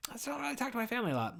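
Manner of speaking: fast, breathy whisper; whispered aside. Real, not acted. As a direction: whisper it quickly to yourself. Confessional aside.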